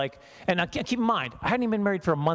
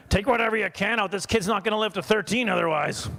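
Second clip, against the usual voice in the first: mock doctor; 4 semitones higher than usual. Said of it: "He's a Saskatchewan doctor".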